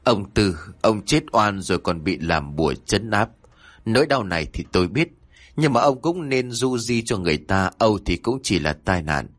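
murmured prayer. Acted. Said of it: "lâm dâm khấn vái".

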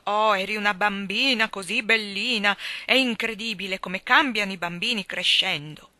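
mock the aunt's mournful sweet tone; gloomy great-aunt. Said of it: "con un lugubre sorriso".

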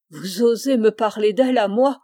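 the outraged mother lashes back, voice rising; cried out indignantly. Acted. Mother outraged at her son mentioning the woman, loud indignant cry. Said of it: "S'écria madame de Chanteprie".

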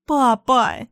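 whimpering. Acted. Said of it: "скулю я".

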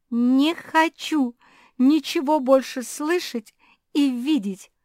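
high, loud, slow angry cry; stamping tantrum. Acted. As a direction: stamp your feet and shout. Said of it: "затопала Куки".

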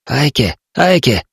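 a voice from the dark calling a name, rising; urgent calling. A narrator's reading. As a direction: plead a name out of the darkness. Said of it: "зашептал тот".

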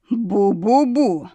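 slow booming echo, stretched out; a pleased echo bellowing back; roaring echo. A narrator's reading. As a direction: boom it out like a cave echo. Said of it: "проорала довольно".

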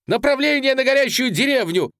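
very high, loud screeching command; shrill order. A narrator's reading. Commander screeching the direction toward the burning village. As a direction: shriek the direction at the men. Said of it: "таким визгливым, не своим голосом".

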